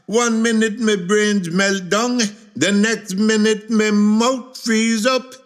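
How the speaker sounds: high-pitched, hammed-up distress; frantic lament. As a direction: wail helplessly to a friend. Lovesick man begs friend for help.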